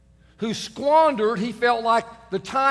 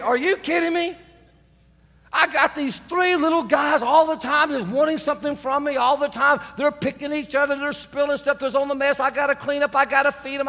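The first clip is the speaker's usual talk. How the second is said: higher, fed-up wife ranting; imitating a harried mom; exasperated wife; 5 semitones higher than usual. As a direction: pile up the complaints, mildly worked up. Wife's exasperated answer voiced.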